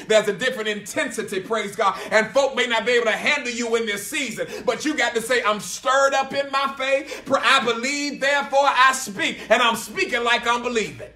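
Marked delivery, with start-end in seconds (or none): 2.9-11.1 rousing preacher's declaration, stretched key words; full-force preaching. Real, not acted. Preacher stirred up in faith, full-force declaring. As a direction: declare it with rising preacher's fervour.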